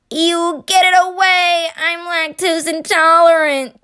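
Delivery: high, loud alarmed cry; loud panicked protest. Acted. California shooing Wisconsin's cheese, high loud protest. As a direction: shout it away in mock panic.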